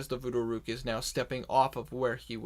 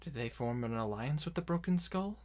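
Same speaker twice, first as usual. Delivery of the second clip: worried question; 6 dB quieter than usual. Acted. Worried character asks about alliance.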